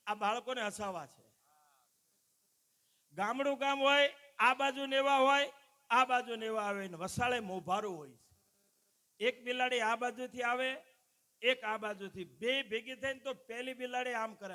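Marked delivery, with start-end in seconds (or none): 3.1-12.2 loud storytelling. Real, not acted. Builds up the cat story loudly. 12.2-14.5 mock shout. Shouting while acting out cats.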